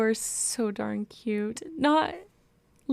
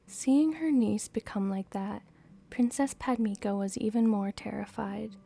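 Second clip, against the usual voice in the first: story narration. A narrator's reading. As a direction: read the story gently aloud. Reading a novel aloud.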